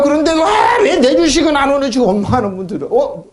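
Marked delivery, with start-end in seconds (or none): 0.0-2.0 higher, chuckling whine; laughing mock gripe. Preacher mimics an investor whining that his stock won't rise, chuckling. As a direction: laugh through a petty complaint.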